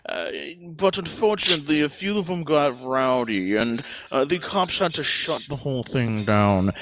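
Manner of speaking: lightly voiced snob, posh-ish; a hint of a smug rich lord; snobby aristocrat voice. Plays snobby rich Lord Cat.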